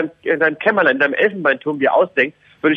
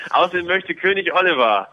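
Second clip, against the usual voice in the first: royal proclamation. Pretend. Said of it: "Hier kommt der Wille des Königs".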